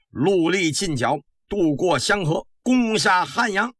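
slow, rising battle order; commanding order. Acted. General orders troops into battle.

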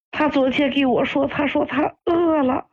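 telling it through tears; tearful. Real, not acted. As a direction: recount it while holding back crying. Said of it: "阿姨，您别哭了". (含着泪讲述)

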